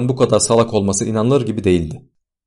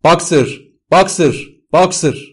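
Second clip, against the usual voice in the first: high, repeated falling calls; loud, pleading cries; desperate shouting; 8 semitones higher, 5 dB louder, slower than usual. A narrator's reading. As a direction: keep calling the name in desperation. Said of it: "diye bağırıyordu".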